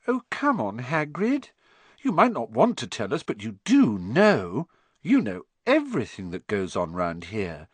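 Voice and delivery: coaxing and flattering, slowing on but you do know; butter Hagrid up gently; sweet-talking the gamekeeper, lightly warm. Acted. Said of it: "in a warm, flattering voice".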